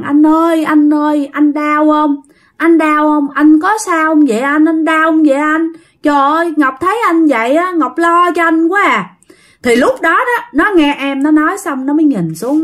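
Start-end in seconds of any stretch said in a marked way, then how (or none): 0.0-9.1 higher, pleading imitation of a little sister; worried little sister. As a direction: lightly voice a child fretting over her brother. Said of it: "bé Ngọc mới lại mới hỏi rằng". (giả giọng em gái lo lắng hỏi anh)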